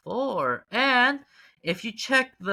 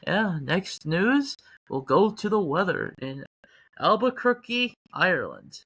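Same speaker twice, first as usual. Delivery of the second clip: deep radio announcer voice. Pretend. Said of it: "doing that voice".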